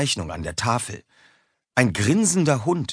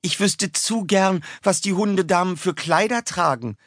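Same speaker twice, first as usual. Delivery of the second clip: put-on dreamy girl; 11 semitones higher than usual. A narrator's reading. Girl Claudine dreaming aloud.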